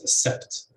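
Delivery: "a sept" with the stress on "sept"; end-stressed "a sept"; second-syllable stress. Shown as a demonstration. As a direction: pass over "a" and land on "sept". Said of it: "with stress on the, on the second syllable".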